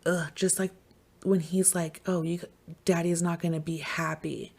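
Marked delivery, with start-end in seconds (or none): 2.1-4.5 hushed, breathy imitation of a creepy father; creepy dad. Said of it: "I get that creepy vibe".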